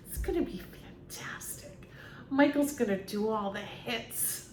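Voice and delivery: breathy whispered hollow enthusiasm; fake-cheerful whisper. Mocking a fake manager's promise, half-whispered fake cheer. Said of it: "people who talk like that".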